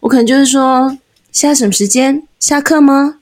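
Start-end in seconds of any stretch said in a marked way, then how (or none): 1.3-3.2 serious teacher. Shown as a demonstration. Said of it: "就是我如果真的要严肃讲一件事情，".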